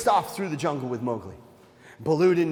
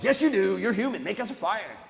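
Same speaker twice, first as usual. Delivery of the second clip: higher, pestering monkey demand; mildly insistent, contradict him; 4 semitones higher than usual. Acted. Monkeys demanding fire from Mowgli, insistent.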